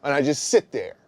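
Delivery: loud emphatic storytelling. Real, not acted. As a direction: belt out the story.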